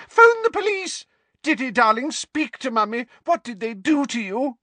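high, loud, frantic scream. Acted. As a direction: scream it in panic. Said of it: "Aunt Petunia screamed".

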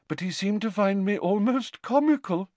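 high, offended, controlled voice; aggrieved. A narrator's reading. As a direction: report the insult with wounded dignity. Aggrieved seer before her outburst.

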